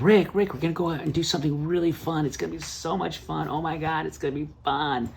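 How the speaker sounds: imitated gushing wife. Wife waking husband at six, gushing in a high voice.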